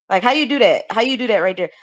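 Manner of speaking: "that" said "dat", casually run along. Shown as a demonstration. Showing the co-host everyday slang, "that" as "dat". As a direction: drop the TH in "that" to a D. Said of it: "I would say that".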